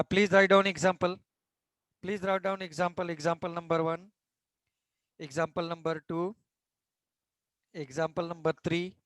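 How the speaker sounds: slow, even dictation pace for notes. Acted. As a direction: spell it out slowly so students can write. Dictating example headings. (धीमी गति से लिखवाना)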